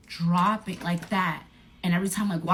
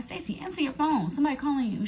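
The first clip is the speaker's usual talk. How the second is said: mock urging; 8 semitones higher, faster than usual. Urging friend to answer phone.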